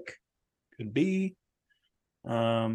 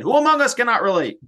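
mock dramatic; 10 semitones higher, 7 dB louder than usual. Mock dramatic rhetorical question.

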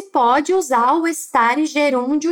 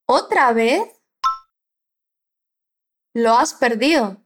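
slow model question; 4 semitones lower than usual. Shown as a demonstration. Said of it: "vamos repetir a pergunta".

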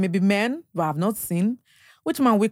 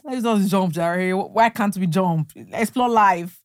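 slow coaxing; slower than usual. Retold or imitated. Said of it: "I'm like".

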